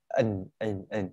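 "ẩn" ending on N, no NG; reduced ending demo. Shown as a demonstration. Teacher showing the reduced ending of going, short demo. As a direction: say a short "ẩn" closing on a plain N. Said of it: "Bỏ âm ngờ đi thành nó thành âm nờ".

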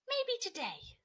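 Cody finally deciding to be brave. Acted. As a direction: lift it up bravely.

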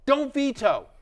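high, insistent "Don't veto"; emphatic plea. Real, not acted. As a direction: hit "veto" hard and high. Pleading against vetoing trades.

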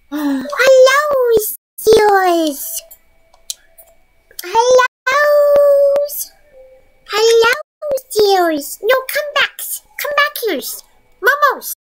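high sing-song pet voice; pet talk voice. Real, not acted. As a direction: coo high at the animals. Sweet-talking pets.

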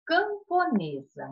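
camponesa said slowly and clearly; slow dictation. Shown as a demonstration. Teacher to pupils giving the feminine, slowly. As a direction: stretch out camponesa. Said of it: "E com o feminino de camponês".

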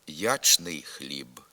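ячний with a clear ч, said slowly; spelled pronunciation. Shown as a demonstration. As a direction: sound the ч in ячний хліб. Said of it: "Так ми пишемо".

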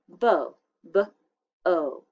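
bo, then b and o each sounded out on its own; sounding out letters. Shown as a demonstration. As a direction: break bo into its sounds. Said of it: "then do the second syllable".

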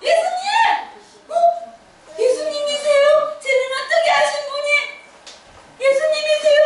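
high, quick wondering questions; amazed. Acted. 눈을 뜬 바디메오가 놀라서 예수님께 묻는 소리. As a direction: look around in awe. Healed man amazed, seeing.

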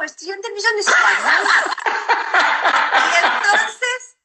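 laughing through the words; a real laugh breaking in. Real, not acted. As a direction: cracks up mid-sentence. Laughs at own joke.

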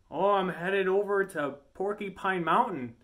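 put-on Yooper accent. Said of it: "they have such a Canadian accent".

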